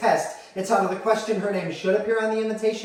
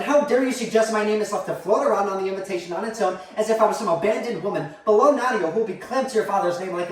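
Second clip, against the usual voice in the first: indignant, slightly raised protest; affronted mother; 3 semitones higher, 3 dB louder than usual. Acted. Mother objecting to her place on the invitation, affronted. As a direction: take mild but growing offence. Offended mother quarrels by phone.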